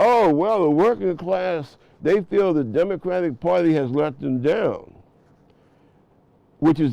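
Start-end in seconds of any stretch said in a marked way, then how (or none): 0.0-4.9 mocking pompous pundit. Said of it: "saying about".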